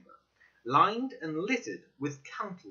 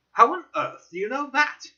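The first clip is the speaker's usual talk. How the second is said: higher and louder in amazement; startled question, pitched up; astonished; 11 semitones higher, 9 dB louder than usual. Acted. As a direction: blurt it out, taken aback. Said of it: "I asked in astonishment".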